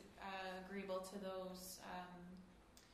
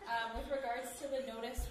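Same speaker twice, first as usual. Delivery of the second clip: laughing; 4 semitones higher, 9 dB louder than usual. Real, not acted. Still laughing after beard joke.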